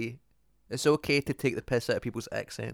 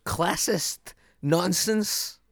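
voice breaking; 6 semitones higher, much slower than usual. Real, not acted. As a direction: voice cracking on both words. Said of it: "my voice broke twice when I said that".

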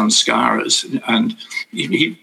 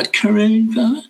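nervous confusion; 12 semitones higher, slower than usual. Retold or imitated. Nervous speaker answering the guru.

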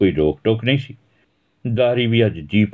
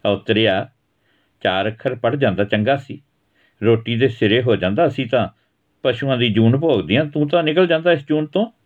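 higher voice, bitter and reproachful; rebuking mother; 4 semitones higher than usual. Acted. Mother scolding her son about schooling, bitter. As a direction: lament the wasted chance at him.

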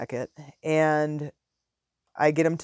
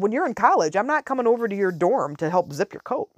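higher-pitched mock-firm parent; retold teasing refusal, voice lifted; playful insistence; 4 semitones higher than usual. Playful scolding makes boy laugh.

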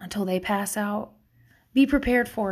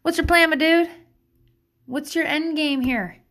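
friendly question; 5 semitones higher than usual. Shown as a demonstration. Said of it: "replace it with".

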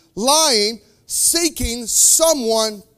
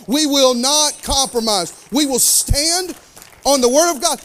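rising defiant declaration; 3 semitones higher than usual. Retold or imitated. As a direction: build the vow up to a stand. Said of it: "we will stand up and say".

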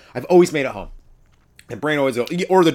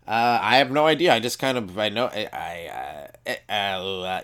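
stammering; 3 semitones lower than usual. Retold or imitated. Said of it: "I just really stammered for a while".

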